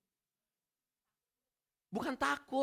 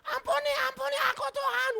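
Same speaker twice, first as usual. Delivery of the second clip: terrified prayer. Retold or imitated. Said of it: "hidup gue udah kelar deh".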